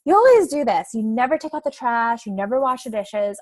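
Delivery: imitating her old blaming tone; accusing as she used to; mock accusing. To her partner, a lightly acted blaming complaint. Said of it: "I always use the you word".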